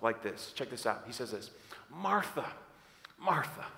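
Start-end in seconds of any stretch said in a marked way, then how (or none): 1.9-3.7 soft, tender calling of a name; lovingly voiced appeal. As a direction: call gently, falling on each name. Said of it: "in such a loving, loving way".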